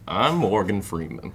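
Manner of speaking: low, slow deep narrator voice; lightly voiced gravel-free Freeman imitation; Morgan Freeman voice. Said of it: "That's my best Morgan Freeman".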